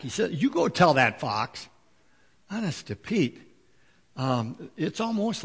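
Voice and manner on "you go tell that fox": a cheeky, defiant comeback; mild mock defiance, daring the ruler; sassy retort. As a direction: talk back with some sass. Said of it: "he sasses back".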